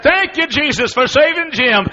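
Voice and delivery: high, loud, overjoyed cries of thanks; wife rejoicing out loud that her husband got saved; joyful praise. Retold or imitated. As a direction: shout your thanks like your prayer was just answered. Wife hugging the preacher.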